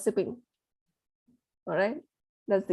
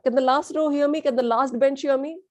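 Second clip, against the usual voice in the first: teacher calling out; 3 semitones higher than usual. Shown as a demonstration. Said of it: "Teachers in school".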